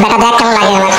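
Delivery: low, laughing gloat. Acted. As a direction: chuckle with glee at his trouble. Gloating over the coming scolding.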